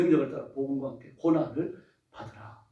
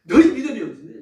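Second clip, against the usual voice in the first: loud rebuke on 너희, pitched up; scolding; 5 semitones higher, 10 dB louder than usual. Acted. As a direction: hit 너희 hard like a scolding master. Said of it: "이건 야단치는 거예요".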